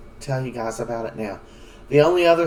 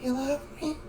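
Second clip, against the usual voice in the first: surprised question; 11 semitones higher, 8 dB quieter than usual. Retold or imitated. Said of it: "she's like".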